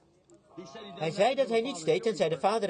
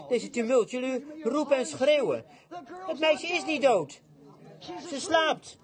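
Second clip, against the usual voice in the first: high, raised voice silencing the crowd; commanding hush; 6 semitones higher than usual. Retold or imitated. Jesus silences the noisy mourners, high and commanding. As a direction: cut through the noise with authority. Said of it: "Jezus zei".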